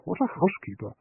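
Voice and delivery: murmured. A narrator's reading. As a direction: murmur it aside, just for Agatha. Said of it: "murmured John".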